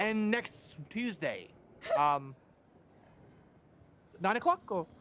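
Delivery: halting, questioning mock accent; mimicking co-host. Impersonating the co-host fixing a time, halting mimicry. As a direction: hesitate through a teasing impersonation. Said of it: "Do an impression of me".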